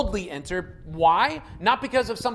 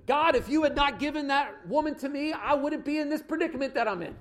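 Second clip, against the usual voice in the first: complaining; 5 semitones higher than usual. Acted. Acts spouse complaining to God.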